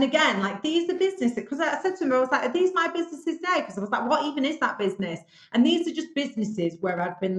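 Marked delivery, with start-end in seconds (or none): 2.4-5.2 higher-pitched retold bewilderment; baffled questioning. Speaker recalls challenging interviewer about listed businesses, baffled. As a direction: question it as if it makes no sense.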